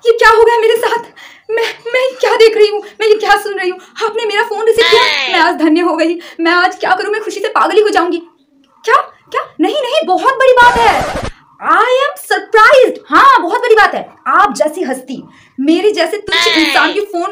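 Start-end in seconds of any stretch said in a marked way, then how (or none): 0.1-8.2 high, gushing, overexcited; hammed-up delight. Overjoyed fan on the phone. 8.8-14.1 high, loud, slow gushing; overacted awe. Starstruck overacting.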